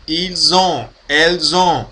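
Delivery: ils ont with S as Z; linked liaison. Shown as a demonstration. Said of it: "O S com som de Z". (ils ont com som de Z)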